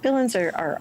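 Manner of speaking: ordinary delivery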